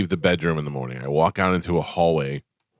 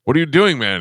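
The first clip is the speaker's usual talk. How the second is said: higher and louder, excited disbelief; amazed fan; 7 semitones higher, 5 dB louder than usual. Retold or imitated. Fan filming Mel Gibson at the tire pump, excited higher voice. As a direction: play the thrilled fan who can't believe it. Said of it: "he's like".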